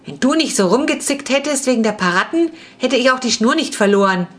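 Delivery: grouch back at your sister; annoyed brother snapping back at his sister; grumbling snap. Acted. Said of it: "motzte Jonas sie an".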